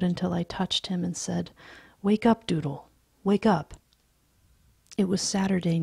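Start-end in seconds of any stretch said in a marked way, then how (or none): 2.0-3.7 put-on firm call to wake a sleeping boy; gentle calling out. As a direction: rouse him from a bad dream, a bit louder. Waking child from nightmare.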